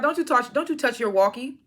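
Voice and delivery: playful imitated threat; mock shout. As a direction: bark the line at him, hammed up. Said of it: "He's like".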